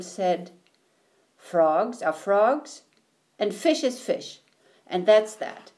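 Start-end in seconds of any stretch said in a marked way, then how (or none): 1.4-5.7 firm. Acted. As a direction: settle the argument. Tadpole ends the argument.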